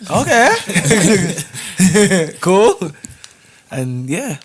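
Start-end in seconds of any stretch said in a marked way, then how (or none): 0.1-2.9 high, loud retold okay; acted eager reply. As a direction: blurt it out, pitched up and punchy. Acts out his reply on phone.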